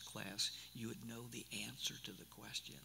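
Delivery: a sudden whisper, as if sharing a secret; whispered teaser. Real, not acted. Teasing aside about Romans class.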